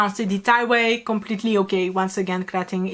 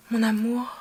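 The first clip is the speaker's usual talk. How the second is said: softer mock-romantic murmur; romantic imitation; 4 dB quieter than usual. Imitating the character's line to the beloved, mock romantic. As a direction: imitate a lover's line, a little softly. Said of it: "he said it in such, like, a romantic".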